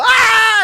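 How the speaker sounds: high, loud mock scream; hammed-up short scream; retold scream. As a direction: yelp it like a startled movie extra. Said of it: "And they go".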